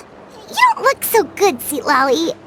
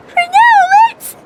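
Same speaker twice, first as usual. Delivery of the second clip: yawning; 10 semitones higher, much slower than usual. Acted. Sleepy before bed.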